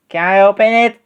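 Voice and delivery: high-pitched little bear asking; eager cub. A narrator's reading. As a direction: ask eagerly in a small, high voice. Eager Baby Bear asks about present.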